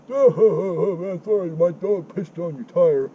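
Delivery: high, loud mock drunk redneck blubbering. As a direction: ham up a sloppy drunk neighbour apologising. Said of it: "like a drunk fucking fat redneck".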